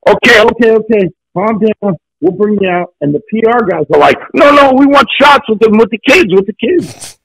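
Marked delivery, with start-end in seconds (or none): 0.1-2.9 hurried placating, pitched up; imitated higher-pitched soothing; retold placating manager. 4.3-7.2 high, pushy imitation; pleading insistence, pitched well up; insistent PR men.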